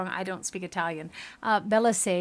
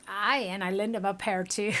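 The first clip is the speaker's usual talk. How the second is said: lightly done Scottish brogue; bad Scottish accent. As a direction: quip with a put-on Scottish accent. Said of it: "my Scottish accent just sucks".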